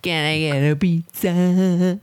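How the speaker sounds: slow, loud stoned call; slow stoner voice. Acted. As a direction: drift through it like a stoner. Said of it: "You went from drunk to stoned".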